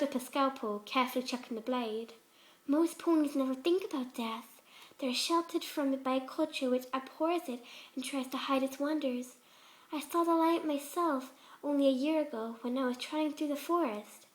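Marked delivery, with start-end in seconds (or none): 2.7-14.3 lightly voiced sweet Fluttershy. Fluttershy voice again.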